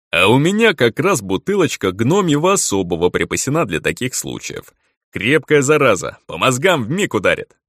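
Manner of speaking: lightly voiced hearty troll; a hint of a cheerful big troll; jovial troll voice.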